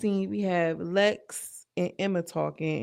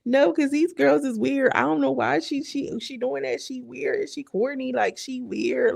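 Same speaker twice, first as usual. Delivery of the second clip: higher and louder, dragging out the words; worked-up rant; 6 semitones higher, 3 dB louder, slower than usual. Real, not acted. Dismissing the cast as weird, pitched up and louder. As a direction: complain with real heat, slowly. Ranting about the girls' behaviour.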